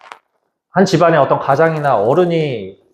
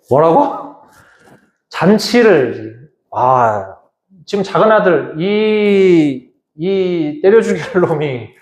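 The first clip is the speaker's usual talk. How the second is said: mildly angry elder son. Retold or imitated. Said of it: "엄청나게 열이 이제 받은 상태죠".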